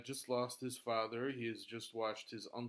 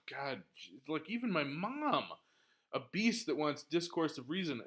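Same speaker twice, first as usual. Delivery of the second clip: indignant outrage; 4 semitones higher, 4 dB louder than usual. Acted. Teacher voicing Hamlet's outrage at mother.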